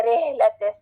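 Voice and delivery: रे लैटिस with an ay vowel for ee; old wrong reading. Shown as a demonstration. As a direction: imitate the learners' mistaken रे लैटिस. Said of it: "ऐसे हम पढ़ते थे शायद पहले".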